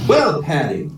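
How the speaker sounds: easy, level Irish brogue; Irish accent. Acted. Paddy calmly answers his angry mate, Irish accent. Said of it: "try out my Irish accent".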